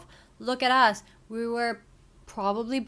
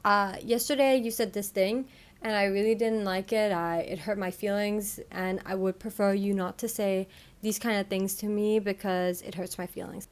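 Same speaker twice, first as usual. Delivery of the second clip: neutral example. Shown as a demonstration. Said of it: "Two, neutral".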